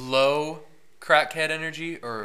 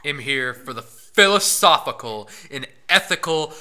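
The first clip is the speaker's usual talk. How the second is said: mock solemn; 9 dB louder, slower than usual. Mock grand statement.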